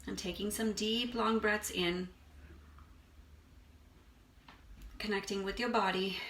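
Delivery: unhurried meditation guide, long pauses between phrases; guided meditation. Acted. Meditation teacher guiding listeners to release stress, unhurried guided meditation. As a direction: ease them through breath and body, leaving space.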